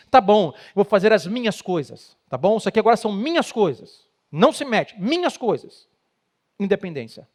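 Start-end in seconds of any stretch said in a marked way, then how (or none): 0.1-5.9 resentful retort. Retold or imitated. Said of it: "O que o outro que sente fraco diz".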